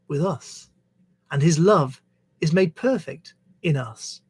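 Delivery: measured reading aloud of a verse; scripture reading. Acted. Reader sharing Jesus's words from the Bible, measured scripture reading. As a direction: read it out in phrases, pausing between them.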